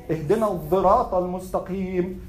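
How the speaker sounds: الصراط with a voiced "dh/z" in place of "s"; Al-Kisa'i "dh" reading. Shown as a demonstration. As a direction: pronounce الصراط as "adh-dhirat". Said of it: "reading using Al-Kisa'i".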